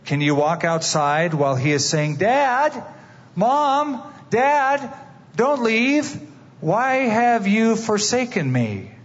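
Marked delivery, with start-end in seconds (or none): 2.2-8.9 put-on much higher, crying-out child's voice begging; a small boy calling his parents back, slowing at the end; pleading child. Son calling to his leaving parents, high pleading child's voice.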